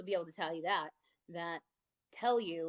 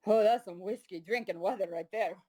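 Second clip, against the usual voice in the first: attempted Costa Rican accent. Quoting her bass player in the rain, in a wobbly Costa Rican accent. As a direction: try on the Costa Rican bass player's accent, knowing it may slip toward Italian. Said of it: "I'm gonna try this accent".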